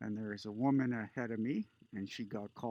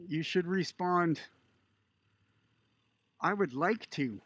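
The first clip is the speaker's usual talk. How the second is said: stern lecture. Retold or imitated. Border guard lecturing the woman at the counter, mildly stern. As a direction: lecture her on privilege, firmly.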